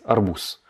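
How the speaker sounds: "arbous" with a voiceless s at the end; final s sound. Shown as a demonstration. Teacher repeats the correct form, voiceless final s. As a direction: say "arbous" as if written with an S. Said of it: "comme si c'était un S".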